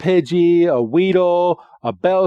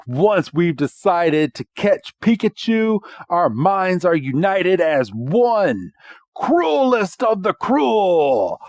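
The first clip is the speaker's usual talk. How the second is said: dramatic declaration, building higher and slower; James; 3 semitones higher than usual. Retold or imitated. James declares the team united, hammed-up slow finish. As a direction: build to a stretched, high finish. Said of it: "James is like".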